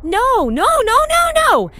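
high, rapid-fire refusal; alarmed protest. Real, not acted. Reactor dreading the City Destroyer, alarmed protest. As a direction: wail the noes way up high.

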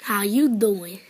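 low smirking flirt.

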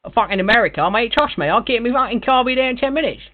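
cocky Cockney geezer; put-on London bloke boasting he can drive anywhere; London accent. Prank caller in put-on London voice.

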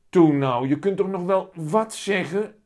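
put-on high, loud child coaxing; pleading little boy. A narrator's reading. Willem begs his cat to speak, high pleading voice.

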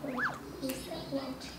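baixinho, quase sem voz; sussurro. Shown as a demonstration. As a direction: fala bem baixo pra ler nos lábios. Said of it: "Tá me ouvindo assim?". (sussurro de biblioteca)

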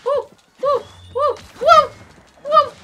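high cheering whoops; excited cheering. Real, not acted. Celebrating hits.

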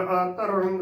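ਅਤਰੰਗ with opening vowel held, then "tarang"; ਅਤਰੰਗ in two parts, a-tarang; correct pronunciation. Shown as a demonstration. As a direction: lengthen the start of ਅਤਰੰਗ and keep a clear t. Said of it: "ਉਚਾਰਨ ਕਰਨਾ ਹੈ".

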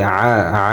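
"আ" squeezed from inside the throat; throaty ayn. Shown as a demonstration. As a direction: press "আ" deep into the throat as Arabic ayn. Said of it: "আইন গলার ভিতর ঢুকবে".

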